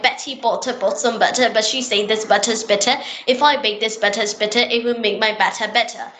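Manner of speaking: tongue twister recited in a British accent. Shown as a demonstration. Learner showing British accent with a tongue twister, British accent. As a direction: run through it in British-accented English. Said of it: "I'm speaking in British accent right now".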